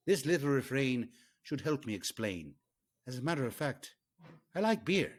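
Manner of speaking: light mock Irish accent, slowed at times; a jolly Irish pub reading, Irish accent only lightly put on. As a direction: read the beer song lyrics with a hammed-up Irish lilt. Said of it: "I'd like to do this in an Irish accent".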